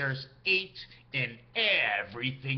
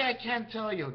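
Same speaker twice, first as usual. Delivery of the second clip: snappy retort; 3 semitones higher than usual. Shown as a demonstration. Answering a nosy questioner with a snappy refusal. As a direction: snap the words back at the asker. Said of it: "nice snap, eh?".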